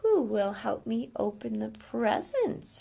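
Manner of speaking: slow, sugary sweet question; honeyed, knowing invitation; sweet as ever. Acted. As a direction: ask it sweetly, hiding a point. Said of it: "her voice was sweet as ever".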